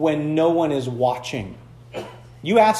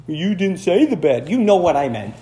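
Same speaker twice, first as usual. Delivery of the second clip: lightly voiced arguing son; cheeky son. Son dodging making the bed, cheeky. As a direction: talk back like a smug kid. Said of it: "picks up everything".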